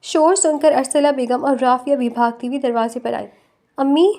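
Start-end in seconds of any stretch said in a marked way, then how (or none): 3.8-4.1 crying out. Acted. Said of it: "رافعہ روتے ہوئے".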